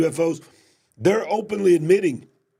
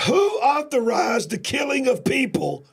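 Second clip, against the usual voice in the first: indignant; 8 semitones higher than usual. Real, not acted. Outraged at unauthorized drone strikes.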